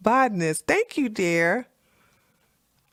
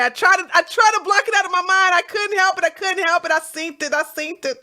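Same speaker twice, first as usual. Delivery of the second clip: disgusted; 9 semitones higher, faster than usual. Real, not acted. Disgusted rant.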